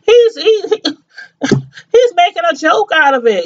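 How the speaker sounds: breaking up over his joke; real crying through a laugh; upset. Real, not acted. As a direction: voice cracking high, near tears.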